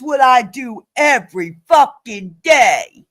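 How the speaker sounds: real indignant rant, emphatic on each chore; worked-up, punchy protest; heated self-defence. Real, not acted. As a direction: argue back, fed up. Heated real argument with Maria.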